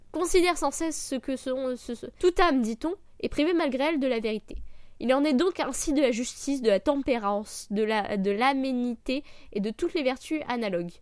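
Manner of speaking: solemn reading of a philosophy passage; reading aloud. Acted. Reads a Marc Aurèle passage.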